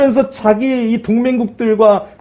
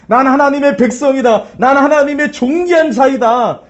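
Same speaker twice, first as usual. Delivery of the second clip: bold declaration; 3 semitones higher than usual. Shown as a demonstration. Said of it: "선포하시기를".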